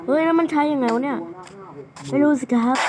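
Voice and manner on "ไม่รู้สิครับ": put-on voice. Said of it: "เลิกทำเสียงงั้นได้ไหม".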